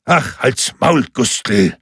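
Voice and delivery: drawn-out, weary put-down; unimpressed shut-up; dismissive interruption. A narrator's reading. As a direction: cut him off with a slow brush-off. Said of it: "unterbrach ihn Deibler".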